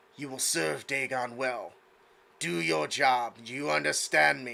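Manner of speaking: harsher, throaty, heavy, guttural voice. Narrator voicing a priestess walking up the curly stairs: guttural, thick voice. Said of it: "her voice is starting to get less nice and like very guttural and thick".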